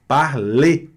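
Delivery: parler with a closed final e and silent r; French parler. Shown as a demonstration. Teacher modelling parler for students to repeat. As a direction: say parler crisp, no r at the end. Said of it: "Escute e repita".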